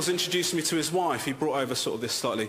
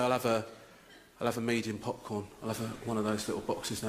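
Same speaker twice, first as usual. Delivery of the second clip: timid order; 6 semitones lower, 5 dB quieter than usual. Retold or imitated. Meek order at counter.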